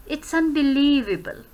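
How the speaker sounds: drawn-out "unbelievable" that steps down to the end; falling intonation. Shown as a demonstration. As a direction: slowly drop away on "unbelievable". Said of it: "वो downwards जा रही है". ("unbelievable" पर धीरे-धीरे नीचे जाता लहजा)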